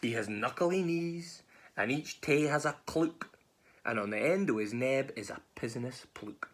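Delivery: slow, lilting storytelling in Scots; story narration. Acted. Mouse describing the gruffalo to a predator, storybook reading. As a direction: read it like a picture book, drawing out words.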